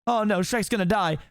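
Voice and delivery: frantic panic. Acted. Donkey fearing for his friend, frantic and high. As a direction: wail it in a mild mock panic. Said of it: "Donkey frantically begins to scamper around".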